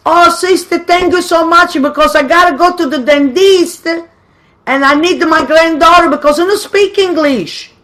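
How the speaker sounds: high, sweet little old lady voice, playing innocent; butter up the nun in a high sweet voice; grandmother's sweet act. Grandmother sweet-talking the nun, high innocent old-lady voice.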